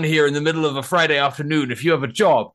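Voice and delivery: lightly voiced snooty questioner; mocking indignant reporter. Protester imitates reporter demanding why they're not at work, mock indignant. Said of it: "He's like".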